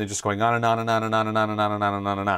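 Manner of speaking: continuous run-on words strung together without any break. Showing how the speaker does not talk, words run together, no pauses. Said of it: "I don't talk like this with one word coming after another without ever, ever stopping".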